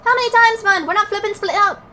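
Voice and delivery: put-on high, exasperated Scottish-accented protest; atrocious Scottish accent. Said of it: "I bet my Scottish accent sounds so atrocious".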